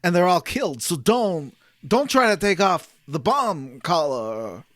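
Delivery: lightly voiced psychic warning, slowed; a hint of a haunted seer foretelling doom; slow, eerie premonition, only lightly acted; Dead Zone vision. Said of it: "That was my Dead Zone impression".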